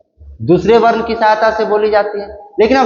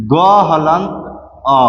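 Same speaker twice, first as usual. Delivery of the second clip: क हलंत, pause, then अ on its own; broken into parts; 4 semitones lower, slower than usual. Shown as a demonstration. Teacher breaking क into consonant and vowel, pausing between parts. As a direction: split क हलंत and अ apart with a clear pause. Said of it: "इसको हम तोड़ेंगे".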